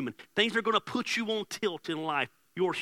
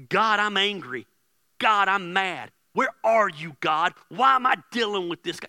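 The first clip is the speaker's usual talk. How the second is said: loud, raised angry plea; unloading on God; 3 semitones higher, 6 dB louder than usual. Acted. David unloading his anger on God, loud and angry. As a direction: cry it out to heaven, acting fed up. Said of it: "David unloads on God".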